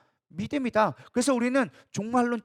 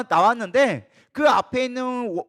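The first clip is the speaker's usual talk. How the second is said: usual speaking voice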